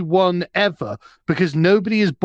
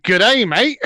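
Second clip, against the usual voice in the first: mock-Australian greeting, raised and lively; thick Australian accent; 2 semitones higher than usual. Comic imagining Italian-American gangsters gone Australian, thick Australian accent. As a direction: put on a broad Australian accent. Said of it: "with a really thick Australian accent".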